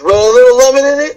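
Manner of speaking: mock posh outrage.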